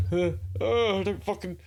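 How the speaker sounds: high, frantic panicked plea. Shown as a demonstration. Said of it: "type thing is, is way clearer".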